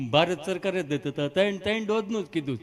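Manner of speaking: comic stutter, repeating the first sound; halting mock stutter; stammering patient. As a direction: stammer through the explanation. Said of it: "એ બેનો વાર્તાલાપ ખાલી જોયા જેવો".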